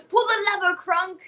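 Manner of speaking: high, loud imperious command; hammed-up animated villainess; cartoon villainess impression. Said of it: "like, Emperor's New Groove, where she goes".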